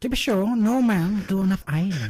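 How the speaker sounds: shouted mock Irish accent. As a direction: belt it out in a hammed-up Irish brogue. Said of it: "Go on, give us your best in there".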